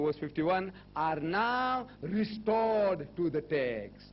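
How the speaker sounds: slow, weighty public declamation; emphatic oratory. Acted. Preacher telling what the preface says, slow emphatic oratory. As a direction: stretch each phrase out for the whole hall.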